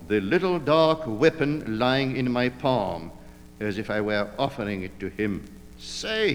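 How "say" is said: high, drawn-out opening word; imitation underworld numbskull; movie gangster drawl. A narrator's reading. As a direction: drawl it like a dim film gangster. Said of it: "he drawled".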